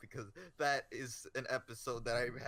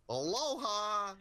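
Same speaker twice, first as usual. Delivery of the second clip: much higher, slow sing-song greeting; breezy secretary; 10 semitones higher, 7 dB louder, much slower than usual. Acted. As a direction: stretch it out like a holiday hello. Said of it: "she's like".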